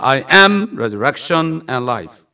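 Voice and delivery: very slow, loud, word by word; drawn-out preaching of "I am good shepherd"; slow intoned scripture. Acted. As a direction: lay each word down like a proclamation.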